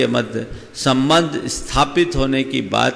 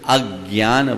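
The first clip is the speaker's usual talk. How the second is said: अज्ञान as "ag-gyaan", g doubled; weight the first syllable of अज्ञान; stress on अ; slower than usual. Shown as a demonstration. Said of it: "अ के बाद ज्ञ है".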